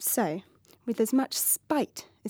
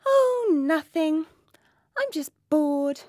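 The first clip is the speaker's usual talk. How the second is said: whispered boredom; 5 semitones higher, 3 dB louder, slower than usual. Acted. Princess sighs she is bored.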